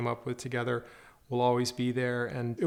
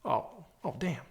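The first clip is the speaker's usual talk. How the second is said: starstruck gasp; 4 semitones higher, 6 dB quieter, slower than usual. Retold or imitated. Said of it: "he goes".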